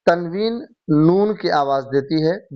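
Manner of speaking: تنوین نون کی آواز دیتی ہے said slowly, word by word; slow, deliberate repeat. Shown as a demonstration. Teacher rereads the quiz option to the class, slowly. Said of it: "بالکل صحیح ہے".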